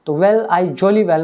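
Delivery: slow, leaning on "jolly well"; emphatic jolly well. Shown as a demonstration. Teacher showing the irritated boy's stress on "jolly well". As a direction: press "jolly well" down hard and slowly, as if fed up. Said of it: "मैं ज़ोर दे के बोल रहा हूँ irritate हो गए".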